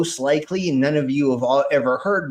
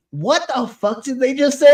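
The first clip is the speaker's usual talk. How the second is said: higher, louder incredulous dad voice; a mock shocked father; imitating dad; 10 semitones higher, 6 dB louder than usual. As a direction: play the baffled dad, pitched up. Dad reacting to weird videos.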